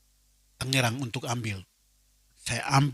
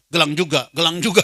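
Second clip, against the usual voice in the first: inner voice; 3 semitones higher, 6 dB louder than usual. Retold or imitated. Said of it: "Dalam hati keluar".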